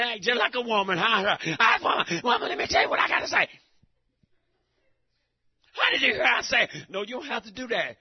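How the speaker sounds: full-force gospel sermon; preaching. Acted. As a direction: preach it hard to the congregation.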